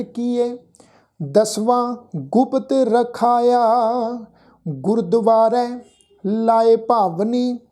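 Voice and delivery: slow, measured Gurbani recitation with long line endings; scripture recitation. Acted. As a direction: recite the shabad slowly, sustaining final vowels on a level tone. Recites both shabads devotionally. (ਠਰ੍ਹੰਮੇ ਵਾਲਾ, ਲਮਕਵਾਂ ਗੁਰਬਾਣੀ ਪਾਠ)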